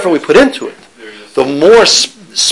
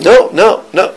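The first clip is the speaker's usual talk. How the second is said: higher, mildly scolding protest; mock screaming GPS; 4 semitones higher, slower than usual. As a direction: lightly imitate a scolding GPS. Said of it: "It screams at you".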